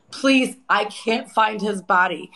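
slow, mildly pleading re-enactment; retold desperate plea. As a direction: replay a distraught plea, slowly, without really crying. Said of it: "I'm screaming and I'm crying".

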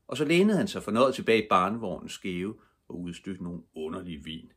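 ordinary delivery, nothing marked

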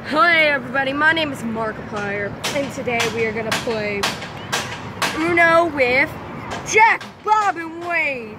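a measured impression of a gaming host; Markiplier. Kid greeting pretend viewers as an idol, hammed-up host intro. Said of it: "I'm gonna do an impression of you".

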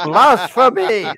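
drawn-out mock proclamation; hammed-up cry of condemnation; mock outrage. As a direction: denounce a traitor in jest. Mock outrage at traitor's confession.

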